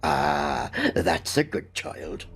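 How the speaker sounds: put-on slow, tender old housekeeper; a gentle, lightly voiced comfort; reassuring. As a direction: soothe the child slowly.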